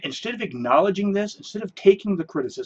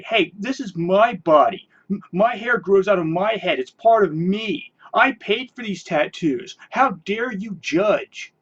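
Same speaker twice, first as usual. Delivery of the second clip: mock defiant; 2 semitones higher than usual. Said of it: "you turn around and say".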